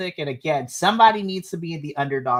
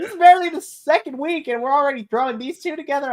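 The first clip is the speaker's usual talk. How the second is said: incredulous; 10 semitones higher, 3 dB louder, faster than usual. Retold or imitated. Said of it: "I was like".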